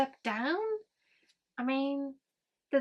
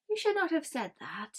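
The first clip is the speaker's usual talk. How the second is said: menacing; 7 semitones higher than usual. Retold or imitated. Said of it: "menacingly smiling".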